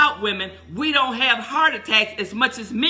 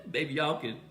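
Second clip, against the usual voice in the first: laughing; 6 semitones lower, 8 dB quieter than usual. Real, not acted. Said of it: "talk to y'all".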